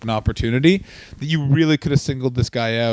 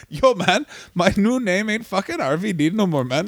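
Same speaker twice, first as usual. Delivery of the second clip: put-on Canadian accent; 5 semitones higher than usual. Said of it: "You went very offensive East Indian".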